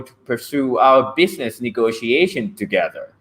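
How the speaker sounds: a touch of stiff, polite formality; measured, courteous host at a business dinner; formal business intonation. Shown as a demonstration. Teacher demos how a host greets at a business dinner, lightly formal. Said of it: "That's one kind of music".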